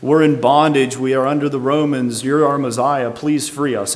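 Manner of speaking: mildly impassioned retold appeal; imitated pleading cry. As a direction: act out a people crying for rescue. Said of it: "they came and cried to him".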